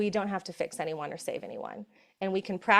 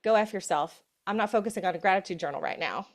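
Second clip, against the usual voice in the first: mock fed-up; 3 dB louder than usual. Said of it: "We're like".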